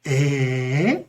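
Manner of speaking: shocked questioning Eh?; surprise. Shown as a demonstration. Teacher demonstrating shock interjections, surprised. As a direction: react in surprise, pitch sweeping up at the end. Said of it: "You can use any of the above surprise, shock".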